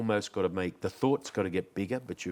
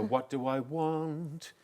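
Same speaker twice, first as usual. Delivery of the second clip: slow, higher question; slow pondering; 7 semitones higher, much slower than usual. Shown as a demonstration. Demonstrating the moment after singing, slow and pondering. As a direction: draw it out as if thinking. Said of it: "But they go".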